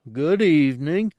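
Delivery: loud, high grunting Gamorrean voice; a cautious snuffle of a greeting; snuffling greeting. Acted. The Gamorrean guard greets two humans in a high snuffling grunt. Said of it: "he snuffled cautiously".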